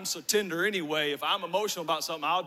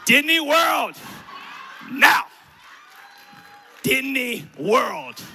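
put-on high, very loud, insistent kid's demand; shouted demand; 6 semitones higher, 11 dB louder, slower than usual. Sam demanding a prize from dad, shouted. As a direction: bellow it repeatedly like a ruthless child.

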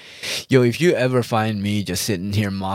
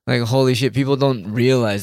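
outraged; 2 semitones higher, 5 dB louder than usual. Real, not acted. Outraged rant about Thailand trips.

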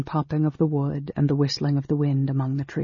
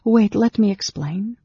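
flustered; 7 semitones higher, 4 dB louder than usual. A narrator's reading.

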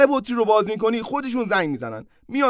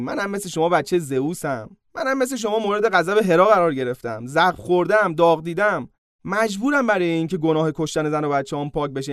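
playing the victim; 3 semitones lower than usual. Hercules begging the two gods, playing the victim. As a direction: whine for sympathy like a wronged brother. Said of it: "زد به جادهٔ مظلوم بازی".

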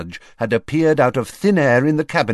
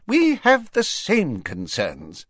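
high, slow, firm Fudge voice; Fudge interrupting; 10 semitones higher than usual. Acted. Fudge cutting off the Prime Minister. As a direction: cut in and take the floor. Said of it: "Fudge interrupted".

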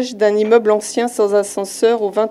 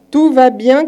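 shouting; 4 semitones higher, 5 dB louder than usual. Acted. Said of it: "crie le patron".

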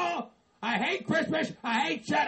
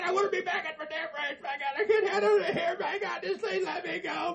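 nervous laughing rant; 3 semitones higher than usual. Acted. Spooked man laughing nervously.

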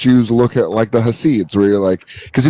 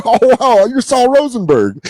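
sharply raised mock exclamation; mock high voice; 10 semitones higher than usual. Comic retelling of meeting a New Yorker, high mock voice. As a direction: pitch it way up in mock awe.

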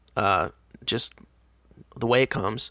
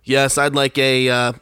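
firm, slow ordering voice; bass in the voice; 4 dB louder, slower than usual. Shown as a demonstration. Customer showing a Starbucks order, loud, clear and bassy. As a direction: put some chest behind the order. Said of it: "put some bass in my voice".

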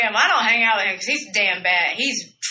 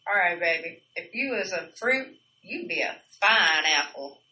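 cheesy pickup line; 2 semitones lower, 3 dB quieter than usual. Pretend. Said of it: "a really good produce joke".

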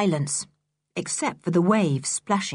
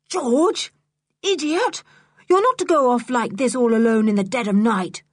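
calling out; 4 semitones higher than usual. Acted. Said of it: "called Julian".

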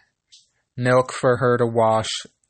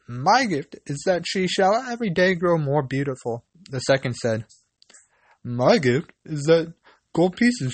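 little elf voices; 3 semitones higher than usual. Acted. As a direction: play the kind little men. Three elves speak.

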